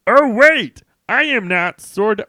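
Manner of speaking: high, loud startled protest; surprised hero. Acted. Hero correcting the villains, startled and loud. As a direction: blurt out the correction in alarm.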